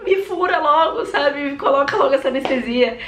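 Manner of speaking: high, urgent demand; half-laughing mock scream for the needle; impatient yell. Woman in labor yelling at the anesthetist, high urgent mock yell.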